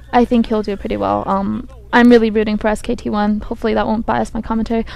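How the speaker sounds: hoarse with a cold; croaky, under the weather voice. Real, not acted. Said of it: "croaky voice".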